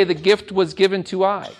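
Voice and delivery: amused read of a wrong sentence; laughing at the wrong form. Shown as a demonstration. Teacher mocks the wrong pronoun to the class, laughing. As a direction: laugh through "given to I". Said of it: "Would you say".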